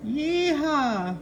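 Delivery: excited cheer. Real, not acted. Cheering as the chart appears.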